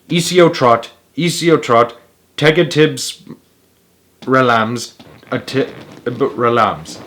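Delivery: "Easy o trot" read out word by word; backwards tortoise language. A narrator's reading. Reading the backwards magic words to the lady, halting. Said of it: "That means".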